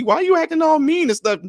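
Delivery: high mock wife voice, whiny; wife complaining. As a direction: play the sulky wife asking why he's mean. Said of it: "all of a sudden, she".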